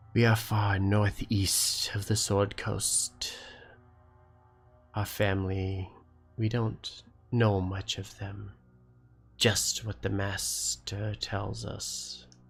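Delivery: voice echoing and reverberating as if through chambers. A game master voices one of the wormlings answering the party, echoing voice. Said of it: "kind of echoing through the chambers".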